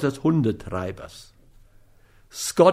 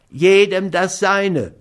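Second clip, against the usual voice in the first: high, slow, louder protest; whiny dog owner, insisting; 6 semitones higher, 4 dB louder than usual. A narrator's reading. Schmidt claims his due from Scott, whiny. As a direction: insist on it slowly in a high, plaintive voice.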